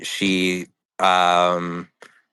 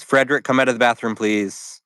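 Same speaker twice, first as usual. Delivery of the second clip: calling out; 4 semitones higher than usual. Acted. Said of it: "she says".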